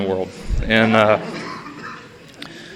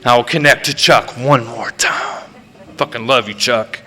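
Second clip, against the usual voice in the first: mock grand vision; 6 semitones higher than usual. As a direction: pitch it up like a man sure the skies will open. Acted grand fantasy before the swim.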